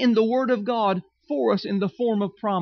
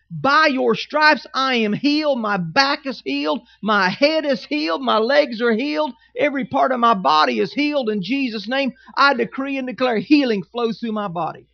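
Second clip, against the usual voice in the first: louder, confident faith confession; bold declaration; 2 semitones higher, 3 dB louder than usual. Shown as a demonstration. Pastor modelling a healing confession for the congregation, boldly. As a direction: declare each healed body part boldly. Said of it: "he wants us to declare".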